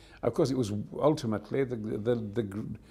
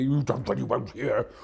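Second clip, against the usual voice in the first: a hint of a ponderous creature chief; Boss Nass. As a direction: voice a pompous alien ruler lightly. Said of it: "a bit of Boss Nass from Star Wars".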